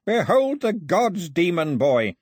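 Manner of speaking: high, loud, slow proclamation; breathless proclamation. A narrator's reading. Priest showing demon boy the gods, breathless triumph. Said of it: "with a fit of coughing".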